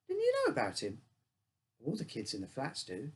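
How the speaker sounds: amazed she doesn't know; surprised. Acted. Susie surprised at narrator.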